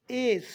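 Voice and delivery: एस loud with a long gliding vowel; correct S. Shown as a demonstration. Teacher modelling S for students, long loud एस. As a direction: stretch the vowel before स in एस. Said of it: "एस नहीं एस".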